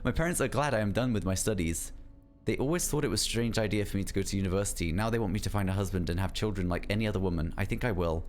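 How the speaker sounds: even, measured reading of a letter; unhurried read-aloud voice. Real, not acted. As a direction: read the letter out plainly and steadily. Reads a love letter aloud.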